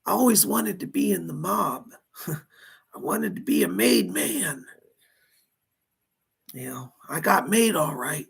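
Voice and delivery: dead mobster speaking through a medium; seance medium. Pretend. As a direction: channel a lost spirit, pleading.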